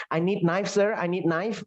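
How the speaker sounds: "knife" as "naif" in straight accent; simple accent, silent K in "knife"; straight local accent. Shown as a demonstration. Asking Sir in a straight accent, knife as "naif". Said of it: "aksenmu lurus-lurus aja".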